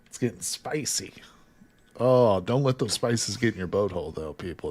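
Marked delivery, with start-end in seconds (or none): 0.1-1.1 hushed teasing whisper. Real, not acted. Streamer whispering a teasing aside to chat. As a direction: breathe it out like a secret.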